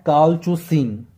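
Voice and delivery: कॉलचुसिन said carefully as kol-chu-seen; careful teacher's reading of कॉलचुसिन; pronunciation demo. Shown as a demonstration. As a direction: model कॉलचुसिन clearly, syllable by syllable. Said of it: "तो इसका pronunciation है".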